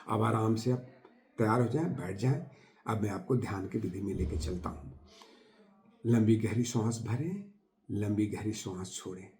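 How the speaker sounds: soft, settled meditation voice; guided meditation. Acted. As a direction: ease listeners gently into the practice, with pauses. Begins leading a guided meditation. (शांत, धीमे स्वर में ध्यान का निर्देश)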